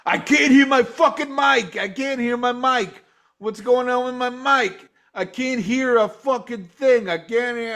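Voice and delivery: mock diva griping; imitating a bitching rocker. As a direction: whine it like an annoyed rock star. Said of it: "this voice bitching".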